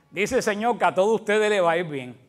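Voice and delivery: mocking ironic tone, stretching Señor. Shown as a demonstration. Preacher demonstrating irony to the congregation, mocking tone. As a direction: say it as irony, not a promise. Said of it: "lo segundo es una ironía".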